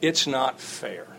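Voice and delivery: put-on slow, sulky kid's whine; mock child complaint. Father imitating his child's slow sulky whine. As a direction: drag it out like a sulking child. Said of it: "here's a big one".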